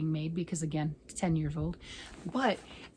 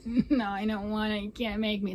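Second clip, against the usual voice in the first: whiny voice. Retold or imitated. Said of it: "your best imitation of a whiny voice".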